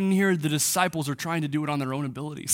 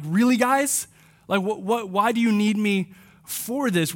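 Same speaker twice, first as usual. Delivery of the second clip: frustrated; 2 semitones higher than usual. Retold or imitated. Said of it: "Like, he is frustrated".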